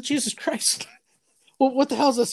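a hammed-up, exasperated squeal; mock outrage. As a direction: throw up your hands at dad's teasing. Dad keeps refusing, mock outrage.

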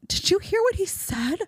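hammed-up offended wife; outraged wife. Wife outraged at husband's retort, mock indignant. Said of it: "she'd be like".

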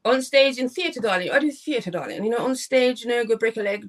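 a hint of a hammed-up luvvie; mock theatre luvvie. Guest joking to host about stage acting, mock luvvie. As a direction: lightly put on an actor's swooping grandness.

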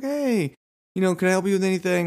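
high and fast friendly pitch; chirpy saleswoman. Retold or imitated. Saleswoman approaching a shopper at the computers, high and fast. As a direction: rattle off a cheery offer of help. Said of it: "she's like".

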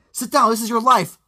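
loud, high game show host voice; mock announcer. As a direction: boom it out like a TV host. Mock announcing her life story.

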